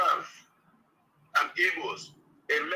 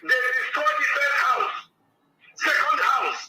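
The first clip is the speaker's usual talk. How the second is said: angry. Real, not acted. Angry caller rants about demolished homes.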